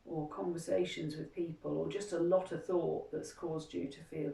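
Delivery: soft, soothing relaxation guide; hushed, unhurried guidance with room to breathe; guided meditation. Acted. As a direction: quietly talk them through a gentle self-massage. Guides a self-massage meditation.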